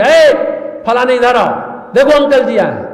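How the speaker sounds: put-on calling the child. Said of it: "जोर से बोलकर बोलेंगे".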